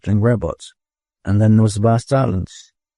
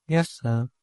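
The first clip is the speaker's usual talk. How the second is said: strange, much softer reply; odd voice; 4 semitones higher, 7 dB quieter than usual. A narrator's reading. Robot answering the eldest in an odd voice. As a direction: answer oddly, holding something back. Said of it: "His voice sounded odd".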